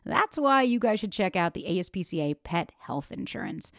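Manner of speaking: upbeat sponsor read, steady and polished. Acted. Host reading a pet insurance ad to listeners, upbeat ad voice.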